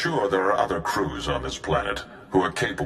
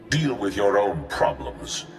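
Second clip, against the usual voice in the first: cold dismissal. Acted. Ally coldly dismisses the gang.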